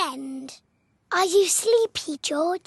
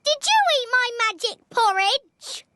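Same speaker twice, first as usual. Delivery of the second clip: put-on Baby Bear voice; 4 semitones higher than usual. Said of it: "Baby Bear walked in and said".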